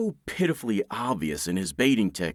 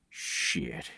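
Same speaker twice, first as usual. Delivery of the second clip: whispered curse; 8 semitones lower, 11 dB quieter than usual. Acted. Muttered curse to himself.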